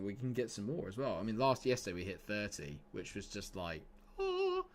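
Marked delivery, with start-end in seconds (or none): 4.2-4.6 high, airy angelic "oh"; heavenly "oh". Retold or imitated. Streamer recalling hitting thirty likes, heavenly high "oh". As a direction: coo a high heavenly note.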